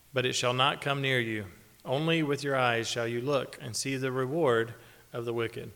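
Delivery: measured, solemn reading of the psalm; scripture reading. Acted. Preacher reading Psalm 91 to the congregation, solemn scripture reading. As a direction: read it out to the congregation with weight.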